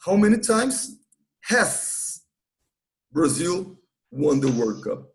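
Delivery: slow, careful model sentence with has; teacher models the right question slowly, with has; correct version. Shown as a demonstration. Teacher to students, careful slow correct model. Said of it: "Tem que usar o present perfect".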